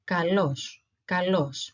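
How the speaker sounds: "kalos" with stress on the o; Greek pronunciation demo. Shown as a demonstration. Teacher giving learners the opposite word, careful Greek pronunciation. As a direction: model "kalos" clearly as ka-LOS. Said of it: "The only difference is that we have an L".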